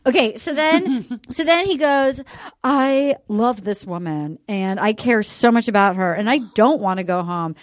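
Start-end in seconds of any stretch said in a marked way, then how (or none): 2.6-7.5 low, slowed-down imitation of sincerity; mock earnest plea. Contestant pleading to stay with her, imitated earnestness. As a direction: imitate his heartfelt declaration, low and measured.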